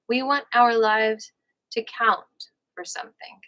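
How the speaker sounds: measured audiobook-style reading; book read-aloud. Real, not acted. Host reads a relationship book to listeners, measured read-aloud. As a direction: read it out in careful, separate phrases.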